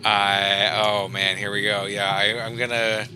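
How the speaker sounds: psyching up before something gross; nervous excitement. Real, not acted. Player about to disturb the body.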